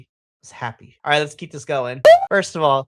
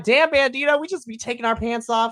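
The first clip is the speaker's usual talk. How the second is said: amazed; 6 semitones higher than usual. Retold or imitated. Fan reacting to the pants rip, high excited exclaim. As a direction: exclaim in gleeful shock. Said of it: "But I'm like".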